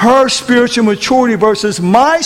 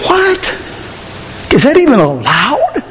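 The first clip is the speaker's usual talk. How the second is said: high, drawn-up incredulous question; retold shock; 6 semitones higher than usual. Preacher recalling his reaction at his desk, high shocked questioning. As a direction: replay stunned disbelief. Retells shock at overheard talk.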